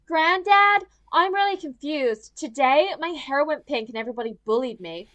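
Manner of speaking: hammed-up whiny confusion to a grandparent; Malia. Mimicking the heroine coming home to Granddad, mock-confused. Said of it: "she literally comes home and she's like".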